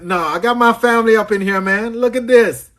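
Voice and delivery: high, thrilled exclaiming; delighted excitement. Real, not acted. Host seeing family up in here, delighted. Delighted his people joined the stream.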